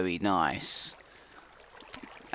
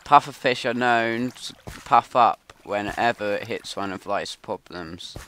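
nature documentary; 2 semitones higher than usual. Acted. Mock wildlife narration.

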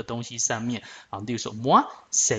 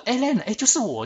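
with an exclamation mark; 9 semitones higher than usual. Acted. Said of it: "有时候加惊叹号".

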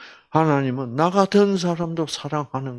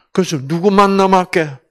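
ordinary delivery

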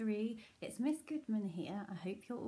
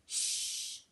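long unvoiced shushing hiss; reindeer's urgent shush; whispered shush. A narrator's reading. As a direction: hush Santa with a shh. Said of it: "whispered the reindeer".

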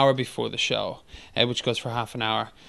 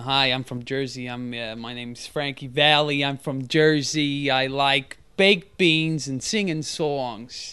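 slow, hammed-up New Jersey accent; mock New Jersey swagger; slower than usual. Shown as a demonstration. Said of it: "what's the Jersey one?".

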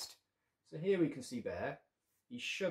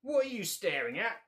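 high, louder squeak of a cross little dad; squeaky ladybird; 7 semitones higher, 5 dB louder than usual. Acted. Daddy ladybird scolds the staring bear, high squeak. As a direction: squeak it up like a tiny father. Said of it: "squeaked the daddy ladybird".

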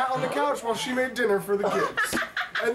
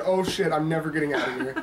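laughing retelling; 3 semitones lower than usual. Retold or imitated. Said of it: "I said".

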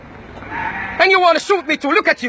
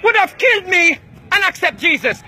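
furious shout; 5 semitones higher than usual. Real, not acted. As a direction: let the anger burst out at the crowd. Shouting at men in church.

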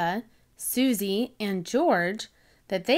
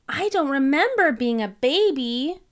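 put-on "I don't remember being a baby" pushed higher and louder, leaning on "remember"; insisting, higher and louder; 5 semitones higher than usual. Peppa insists to Mommy Pig, higher and louder. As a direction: stubbornly press every word, hitting "remember". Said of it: "Peppa insisted".

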